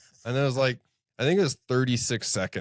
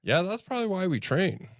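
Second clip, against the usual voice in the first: higher, amused student voice; students' voice; 9 semitones higher than usual. Retold or imitated. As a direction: voice the class, wry. Class voiced, high.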